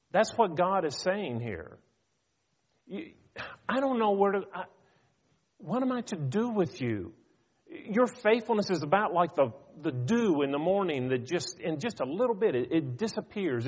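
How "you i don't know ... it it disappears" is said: pitched up high in weary exasperation; exasperated. Retold or imitated. Preacher voicing God to his people, exasperated and higher. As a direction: throw up your hands, fed-up and pleading. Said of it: "You can almost hear the exasperation".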